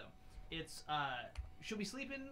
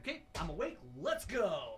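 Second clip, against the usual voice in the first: imitating a toddler raring to go, building louder; instantly wide awake; 5 dB louder than usual. Dad imitates his daughter suddenly waking up, instantly raring to go. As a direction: pop awake, pitched up, then a loud launch. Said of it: "goes from zero to sixty".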